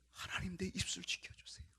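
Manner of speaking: soft, restrained plea; hushed prayer. Acted. David asking God to guard his lips, hushed. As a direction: pray it quietly under the breath. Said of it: "그 기도하고 있어요".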